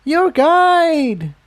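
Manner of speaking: put-on old mare exclaims at the missing guide; exclaimed. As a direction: exclaim it, scandalized. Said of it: "the elder earth pony exclaimed".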